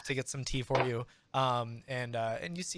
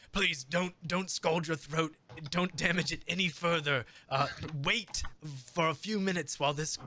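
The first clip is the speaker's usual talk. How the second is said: lightly voiced pleading innkeeper, slightly raised; fretting innkeeper; 3 semitones higher than usual. Innkeeper returning with tea, mildly worried warning. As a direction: gently implore in a mild character voice. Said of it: "Uh, he says".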